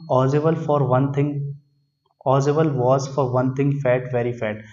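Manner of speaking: reads the English line out slowly, word by word; careful, drawn-out classroom reading; slow reading aloud. Shown as a demonstration. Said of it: "teacher reads text slowly aloud".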